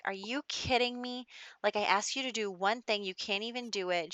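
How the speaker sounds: acted exasperated scolding; mildly angry, imitated reprimand; mock mad. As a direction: play an annoyed mom telling off her son. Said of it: "She's so mad".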